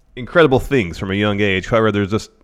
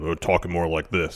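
pitched down low; 5 semitones lower, 7 dB quieter than usual. Shown as a demonstration. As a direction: drop the voice low. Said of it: "pitch down".

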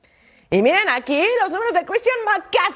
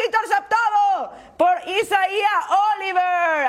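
interception call; 3 semitones higher, slower than usual. Acted. Interception called in highlight.

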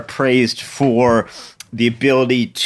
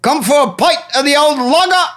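high, hammed-up Cockney voice; Cockney accent; 11 semitones higher, faster than usual. Pub guest greeting the barkeep, hammed-up Cockney. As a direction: pitch it way up, mock London Cockney. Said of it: "that's my Cockney".

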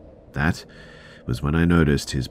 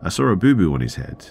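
put-on high, louder childlike questioning; little girl; 8 semitones higher, 5 dB louder than usual. Little girl to her mother, innocent questioning. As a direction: lightly voice a small child asking Mummy. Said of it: "My little girl asked".

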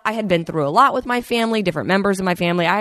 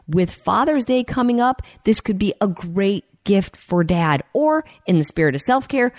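upbeat host-read sponsor spot; smooth podcast ad voice. Acted. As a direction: sell the watch brightly, like a radio ad.

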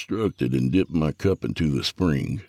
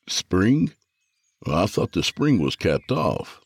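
rising, puzzled question, a touch higher; mildly baffled, pitch lifted; 4 semitones higher, slower than usual. Acted. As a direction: sound caught off guard by the news. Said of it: "sounding puzzled".

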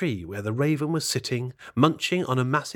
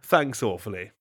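wicked smile. Acted. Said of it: "with a wicked smile".

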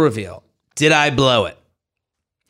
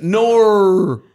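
Australian accent; 3 semitones higher than usual. Shown as a demonstration. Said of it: "They put R's on the end".

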